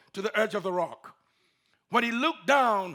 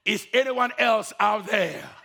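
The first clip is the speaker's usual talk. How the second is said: laughing, louder call for anyone else; comic call out; 4 dB louder than usual. Acted. Climber calls past God with a laugh. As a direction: deliver the punchline with a laugh.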